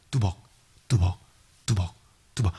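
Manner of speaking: low, spaced-out footfalls; ominous low step sounds; imitated footsteps. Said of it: "돌아다니고 있는 소리가".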